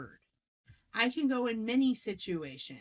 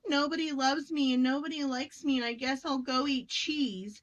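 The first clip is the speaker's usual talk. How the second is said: higher, sing-song pity party; mock self-pity; 4 semitones higher than usual. Stressed adult feeling nobody loves them, mock self-pity. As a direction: play up a childish woe-is-me.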